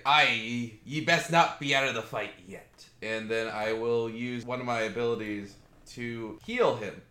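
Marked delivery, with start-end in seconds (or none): 0.1-2.9 rallying character voice. Acted. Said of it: "pat him on the back and say".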